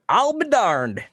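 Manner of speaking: high, loud drawn-out hillbilly "I'll be darned"; Southern exclamation. Retold or imitated. Imitating West Virginia talk, a loud high country drawl. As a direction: belt it like a West Virginia old-timer. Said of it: "the whole".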